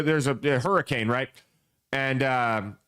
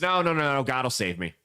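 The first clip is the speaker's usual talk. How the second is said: low, stubborn God will save me; stubborn refusal; 4 semitones lower than usual. Retold or imitated. Flooded man refusing his neighbor's ride, low and stubborn. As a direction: refuse flatly, sinking low.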